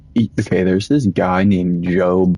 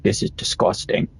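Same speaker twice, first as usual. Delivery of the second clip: mimicking the kid; 6 dB quieter than usual. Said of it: "He's like".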